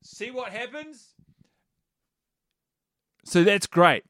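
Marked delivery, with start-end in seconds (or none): 0.0-1.1 high, soft and slow, as if shouted from a distance; calling from far away. Shown as a demonstration. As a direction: call it out to a mum far away. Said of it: "the delivery is".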